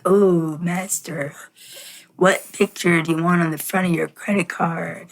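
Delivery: lightly voiced fawning servant; a hint of a groveling sidekick; hunchback assistant. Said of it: "And the guy's like".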